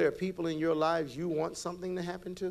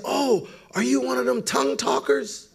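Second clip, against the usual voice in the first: higher, louder curious question; Russian man asking; 10 semitones higher, 5 dB louder than usual. Retold or imitated. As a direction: lightly voice the Russian workman. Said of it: "He said".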